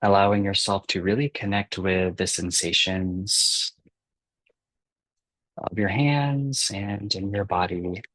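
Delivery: unhurried meditation guide with long pauses; calm guiding voice, softening and slowing towards the breaths; guided meditation. Acted. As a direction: ease them gently into relaxing, leaving space between phrases.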